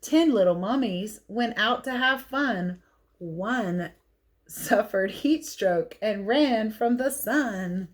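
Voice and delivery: put-on lively read-aloud for kids; picture book reading. A narrator's reading.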